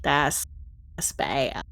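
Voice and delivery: whispered dread. Real, not acted. Reacting to enemy's lightning bolt.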